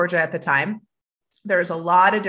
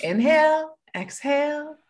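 guided breathing cue; 7 semitones higher, slower than usual. Real, not acted. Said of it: "Take a breath".

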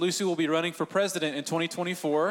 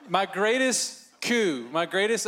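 laughing; 4 semitones higher, slower than usual. Real, not acted. Joking about winning his wife.

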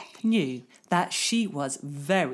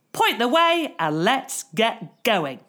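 excited countdown; 5 semitones higher than usual. Acted. Girl starting race.

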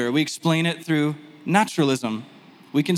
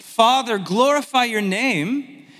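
raised, drawn-out appeal; Jesus praying aloud; 5 semitones higher, 3 dB louder, slower than usual. Retold or imitated. Preacher voices Jesus to the Father, mild proclaiming appeal. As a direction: call out, slowing on the plea.

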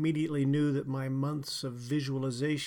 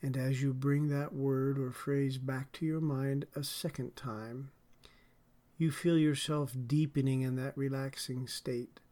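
guided meditation. Acted. Leads a guided relaxation.

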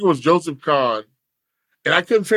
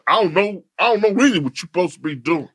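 lightly voiced rapper impersonation; a hint of imitated rapper, rattled off quickly; rapper impression; faster than usual. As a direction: do a light take on a rapper friend. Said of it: "you kill me with the rapper"

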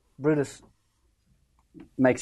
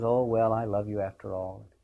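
relent gently, dropping pitch and volume; softened; 3 semitones lower than usual. Acted. Brutus making up with Cassius, softened. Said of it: "Brutus softens".

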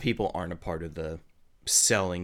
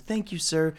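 squirrel person voice; 6 semitones higher than usual. Acted. GM voices grateful squirrel NPC.

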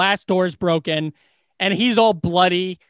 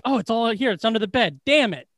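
higher, lightly voiced Tony regretting the search; mock Tony dismay; 4 semitones higher than usual. Tony Soprano lamenting the drugs were under the bed, in a higher mock voice. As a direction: imitate Tony kicking himself, pitched up. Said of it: "Tony Soprano being like".

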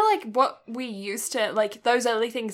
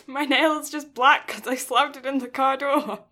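put-on protesting child; 4 semitones higher than usual. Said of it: "And I'm like".

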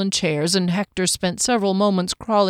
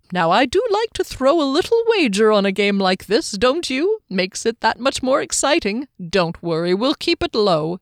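reassuring; 3 semitones higher than usual. Acted. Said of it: "he added reassuringly".

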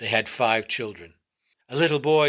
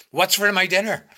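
loud, much higher angry shout; shouted demand; 8 semitones higher, 6 dB louder than usual. A narrator's reading. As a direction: bang the table and shout it. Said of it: "banged his fist on the table and shouted".

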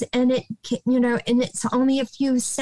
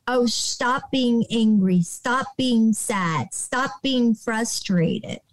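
slow dismissive scolding; slower than usual. Retold or imitated. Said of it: "trying to say".

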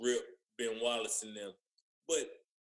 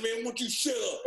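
high-pitched imitation of irritation; mock angry retort; 8 semitones higher than usual. Player imitates the mad teammate in the shower, mock angry retort. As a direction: act out an annoyed comeback, half laughing.

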